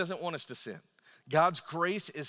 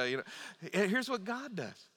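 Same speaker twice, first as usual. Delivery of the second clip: ordinary talk, nothing marked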